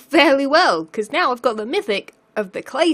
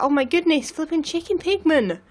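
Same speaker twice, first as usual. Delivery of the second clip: surprised exclaim; 6 semitones higher than usual. Real, not acted. Startled by a pigman.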